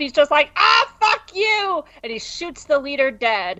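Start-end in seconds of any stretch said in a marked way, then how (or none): 0.6-1.8 high, drawn-out mock yell; retold battle cry, pitched high; furious outburst. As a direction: cry out in cartoonish fury. Acting the man who wakes shooting.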